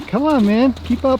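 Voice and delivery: high urging call. Real, not acted. Calling to the horses to keep up, urging. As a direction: call them on to keep pace.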